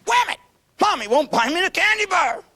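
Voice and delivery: put-on high, wailing little kid; whiny kid voice. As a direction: whine it like a toddler denied candy. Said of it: "the little kid's horse tells him is".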